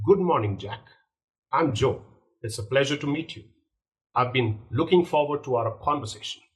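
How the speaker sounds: confident warm greeting. Shown as a demonstration. Coach showing a job seeker the opening line, confident and warm. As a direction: greet him like you're glad to be there, with real enthusiasm. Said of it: "try saying this".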